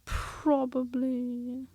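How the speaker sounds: slow, dull one-word reply; gloomy donkey, slowly; unimpressed. Acted. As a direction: drag it out, completely unmoved. Eeyore answers dully.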